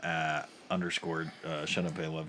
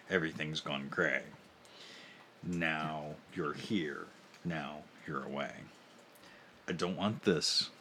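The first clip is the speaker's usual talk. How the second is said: sultry voice. Shown as a demonstration. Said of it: "in my sultry, sultry voice".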